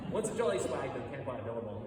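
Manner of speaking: a light Australian accent on "billabong". Shown as a demonstration. Telling viewers the song's opening in a mild Australian accent. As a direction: say it the Aussie way, lightly, for authenticity. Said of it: "I should say this in my Australian accent".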